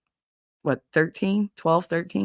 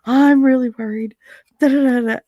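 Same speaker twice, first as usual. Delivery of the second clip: mock worried son; 6 semitones higher, 6 dB louder than usual. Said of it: "he was just like".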